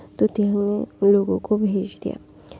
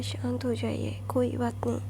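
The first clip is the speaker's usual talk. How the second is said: soft reassurance; 7 dB quieter than usual. Acted. Calming his mother.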